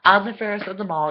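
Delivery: loud, high, shouting down the queen; mock defiant outburst. Talking back to the wicked queen, loud mock defiance. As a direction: stand up to her and yell it. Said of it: "and be like".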